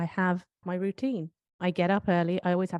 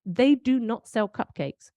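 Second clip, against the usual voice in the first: high, loud, then slow, pointed disbelief; mock outrage; 6 semitones higher, 5 dB louder, slower than usual. Real, not acted. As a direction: spell out the injustice, stressing do not. Outrage at cupcake shop.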